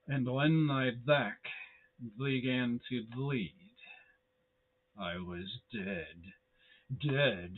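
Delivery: slow creepy rhyme reading; spooky poem recital. Acted. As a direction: recite it like a dark nursery rhyme.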